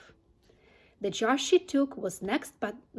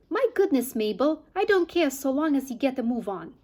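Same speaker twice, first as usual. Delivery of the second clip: a lightly voiced, impatient Mrs Bean, louder; bossy farmer's wife; 3 semitones higher, 4 dB louder than usual. Mrs Bean calling down to Mabel in the cellar, impatient and bossy. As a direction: snap orders down to the cellar, hurrying the maid.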